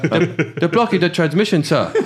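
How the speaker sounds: high, hammed-up fake Asian accent; mock Asian accent. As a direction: imitate Asian-accented film aliens through laughter. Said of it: "they sounded Asian. They're like".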